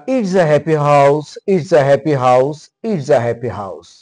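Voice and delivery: It's a happy house read slowly, word by word, in a sing-song; slow rhyme reading. Shown as a demonstration. Teacher reading the rhyme aloud slowly to class three. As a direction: chant the rhyme slowly for young learners. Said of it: "আহ, পড়ি".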